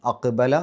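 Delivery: അക്ബല with the ഖ് bounced out audibly; qalqala on qaf. Shown as a demonstration. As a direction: make the qaf in അക്ബല echo outward. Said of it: "ഖ് എന്നുള്ള ശബ്ദം പുറത്തേക്ക് കേൾക്കണം".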